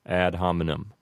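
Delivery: "hominem" को अमेरिकी ढंग से, छोटे स्वरों के साथ "हॉमिनम"; Americanized Latin. Shown as a demonstration. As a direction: say "ad hominem" the American way, flat short vowels. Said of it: "with an Americanized pronunciation".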